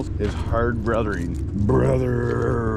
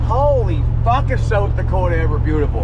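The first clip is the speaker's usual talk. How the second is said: awed exclamation; 6 semitones higher, 5 dB louder than usual. Real, not acted. Awed by South Dakota scenery.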